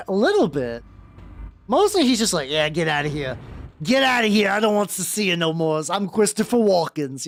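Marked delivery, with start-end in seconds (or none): 2.5-7.3 loose celebrity imitation, lightly done; Christopher Walken impression. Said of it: "the way Christopher Walken sounds".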